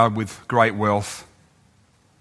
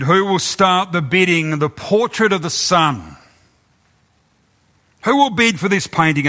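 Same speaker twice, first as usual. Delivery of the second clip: auctioneer calling out; 5 semitones higher than usual. Acted. Auctioneer calling the art crowd for the first bid. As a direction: call the room for bids like an auctioneer.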